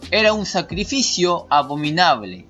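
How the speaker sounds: slow, deliberate commentary reading; emphatic read-aloud. Acted. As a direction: read it out in measured, stressed phrases. Lee el comentario en voz alta. (lectura enfática y pausada)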